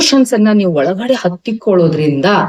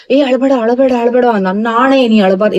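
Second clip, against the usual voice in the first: higher-pitched mock plea not to cry; imitated hushing; 5 semitones higher than usual. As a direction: lightly act out an anxious consoler. Imitates people hushing someone crying.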